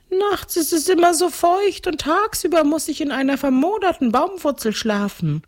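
very high, plaintive ghost count; complaining ghost. Acted. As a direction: grumble on as a high-voiced ghost. (klagendes Gespenst mit hoher Stimme)

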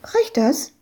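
put-on high, hopeful little girl asking; high child voice. Little girl asks Ewke if her money is enough, high child voice. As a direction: ask it like an eager small girl.

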